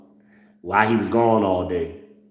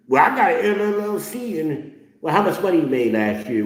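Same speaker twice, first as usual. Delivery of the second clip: high, mocking voice of a fake businessman; mock business talk; 8 semitones higher than usual. Mocking fake entrepreneur, high. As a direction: imitate the bragging hustler, pitched up.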